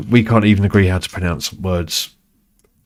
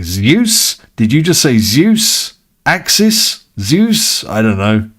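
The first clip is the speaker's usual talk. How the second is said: confused subtitles voice; 5 semitones higher, 5 dB louder, slower than usual. Pretend. Voicing confused subtitle software.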